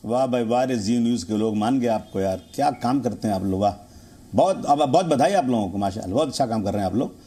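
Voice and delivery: mock congratulations, low and dripping with sarcasm; sarcastic praise. Real, not acted. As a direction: praise them so it plainly means the opposite. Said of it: "इस तरह से तंज मत कीजिए sir".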